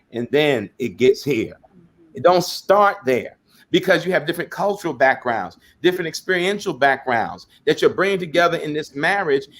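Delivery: usual speaking voice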